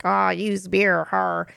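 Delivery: slow, lightly put-on drunken voice; a hint of drunken slurring; drunk foster dad. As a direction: imitate a drunk, words dragged out. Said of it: "who is super drunk".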